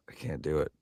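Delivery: ordinary talk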